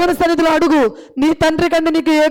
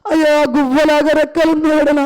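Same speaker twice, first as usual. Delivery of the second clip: fervent prayer. Acted. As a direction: pour out the need before God. Long prayer voiced for childless mother. (వేడుకునే ప్రార్థన స్వరం)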